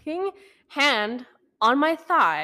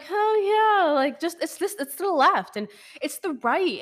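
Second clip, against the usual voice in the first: retold inner freak-out; 8 semitones higher than usual. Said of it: "I'm freaking out in my head".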